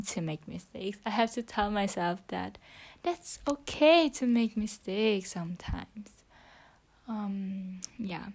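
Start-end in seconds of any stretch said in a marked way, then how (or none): 3.0-6.1 whispering. Real, not acted. Whispering her English practice into the phone. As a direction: keep it to a whisper throughout.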